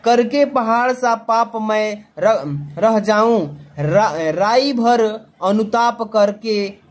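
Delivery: slow, measured reading of the verse; teacher reading a poem from the exam paper to students, slow recitation. Acted. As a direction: recite the stanza line by line, slowly. Reads a poem aloud slowly.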